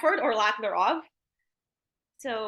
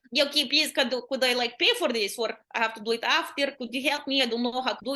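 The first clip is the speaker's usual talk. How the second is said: put-on Eastern European accent. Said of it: "If you do an Eastern European accent in English".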